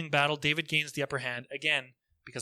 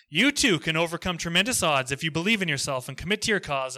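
salesy, pushed announcer voice; cheesy infomercial; 4 dB louder than usual. Pretend. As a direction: hype it like a TV ad. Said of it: "trying to sound like a cheesy infomercial".

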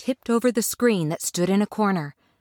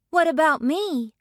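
high-pitched, pleading question; plaintive girl; 9 semitones higher than usual. A narrator's reading. Dorothy asks Oz for her turn, plaintive. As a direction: ask in a high girlish plea.

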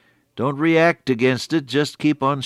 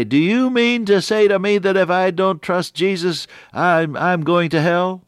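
higher, louder mock indignant talk-show host; defiant tone; 7 semitones higher, 4 dB louder than usual. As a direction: throw it back like an offended host. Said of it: "uh, defiant tone".

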